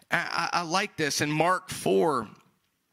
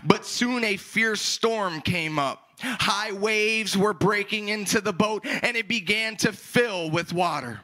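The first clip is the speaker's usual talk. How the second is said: scripture reading; 6 semitones higher than usual. Acted. Reads scripture aloud to congregation.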